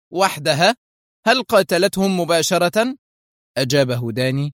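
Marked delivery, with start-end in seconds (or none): 0.1-3.0 high, rising incredulous questions; astonished cry. A narrator's reading. Foster hearing of her lone rampage, amazed. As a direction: exclaim in sheer disbelief. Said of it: "هتف فوستر في دهشة".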